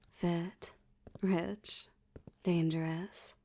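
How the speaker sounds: breathy whispered boast, word by word; seductive whisper. Acted. Mob boss whispering her charms to the detective. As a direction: whisper each word like a temptation.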